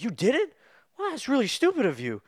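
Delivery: high, loud mocking voice; squeaky sarcastic jab. Mocking line in the movie.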